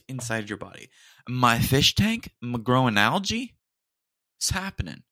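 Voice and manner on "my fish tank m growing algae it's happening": mock alarm. Real, not acted. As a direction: sell the joke like a disaster. Joking comparison to fish tank algae.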